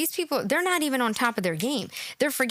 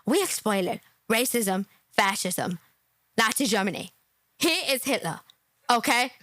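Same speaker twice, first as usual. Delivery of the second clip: mocking imitation; 4 semitones lower than usual. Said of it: "Does he have a lisp or what?".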